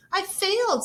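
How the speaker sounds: high, loud "I failed"; upset protest. Acted. Rosie protesting to her aunt, high and upset. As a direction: cry it out, crushed.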